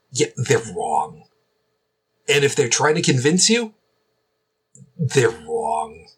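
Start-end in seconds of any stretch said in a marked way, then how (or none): 0.1-1.2 low, gravelly and slow. Acted. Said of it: "say it again with that gravelly voice". 5.0-6.1 low, gravelly and slow. Acted. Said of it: "say it again with that gravelly voice".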